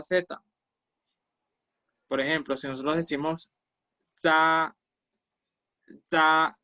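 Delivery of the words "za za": "za" with a buzzy ts onset, no puff of air; "za" with unaspirated, buzzing z, vowel held; vibrating Z. Shown as a demonstration. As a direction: say "za" like a voiced ds. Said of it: "ese sonido de la Z es como vibrante".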